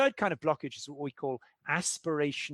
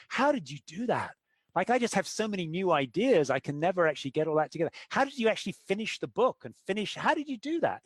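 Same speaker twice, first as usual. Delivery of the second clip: climbing higher in pitch with each wondering question; lightly voiced awe, rising into high disbelief; amazed creative type; 4 semitones higher than usual. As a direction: gush at the achiever like they pulled off magic. Creative person marvels at achiever.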